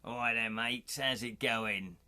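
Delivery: hammed-up cockney geezer; London gangster accent. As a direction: put on a Guy Ritchie London accent. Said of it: "Goodfellas accent".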